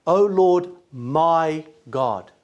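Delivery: mild mock anguished prayer; desperate cry. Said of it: "the heart of a man who is in desperation".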